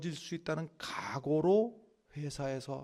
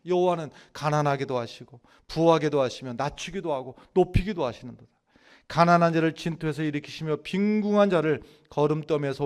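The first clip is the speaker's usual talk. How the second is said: loud, emphatic Bible recitation; scripture recitation; 9 dB louder than usual. Acted. Preacher recites Hannah's prayer to the congregation, forceful declaiming. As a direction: declaim the verse with force, slowing to its close.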